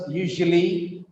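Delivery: "usually" with a reduced middle vowel, YOO-zhuh-lee; three-syllable "usually". Shown as a demonstration. It's not usually.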